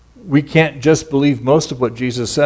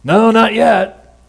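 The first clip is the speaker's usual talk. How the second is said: higher, slow, tired reply; lightly voiced glum disciples; weary fishermen; 9 semitones higher, 4 dB louder, much slower than usual. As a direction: drag it out like empty-netted fishermen. Disciples answer from the boat.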